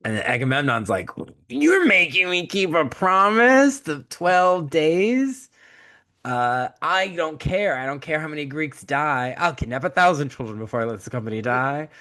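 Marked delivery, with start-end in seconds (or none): 1.5-11.9 a petty king hamming up his outrage; mock outraged Agamemnon. Agamemnon refusing Achilles' twelve-day truce, in a hammed-up indignant whine.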